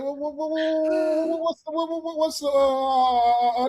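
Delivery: high stammering uncle, stuck on "what"; stuttering uncle. Retold or imitated. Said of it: "And I'm like".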